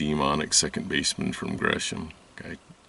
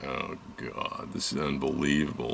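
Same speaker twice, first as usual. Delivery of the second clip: softer, breathy muttered groan; hushed disbelief under the breath; whispered exasperation; 8 dB quieter than usual. Retold or imitated. Seeing the boyfriend on Zoom, whispering in disbelief. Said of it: "I said".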